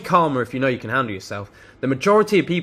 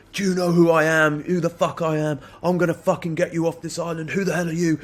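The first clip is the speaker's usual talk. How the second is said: retold angry rant; 4 semitones higher than usual. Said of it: "this guy starts going off the hook".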